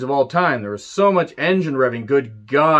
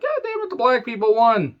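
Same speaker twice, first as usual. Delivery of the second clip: a higher, put-on redneck fan voice; mock racist fan; 10 semitones higher than usual. Mocking a biker crowd member, sneering bitter fan voice. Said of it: "They said it like that".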